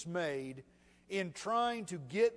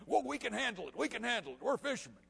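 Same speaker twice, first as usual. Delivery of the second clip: lightly acted, higher-voiced brush-off; confident protest; 6 semitones higher, faster than usual. Capable fishermen refusing to wake Jesus, confident protest. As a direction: insist you've got it covered, pitched up.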